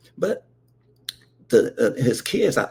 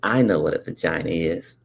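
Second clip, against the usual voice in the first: put-on lower, confident kid brother; lightly voiced proud brother; 9 semitones lower than usual. Brother claiming to know, lower, sure of himself. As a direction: announce it like you know everything. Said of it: "my brother go".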